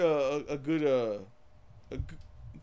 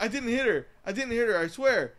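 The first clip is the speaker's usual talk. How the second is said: 1 imitating actor; 7 semitones higher, 5 dB louder than usual. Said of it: "he's like".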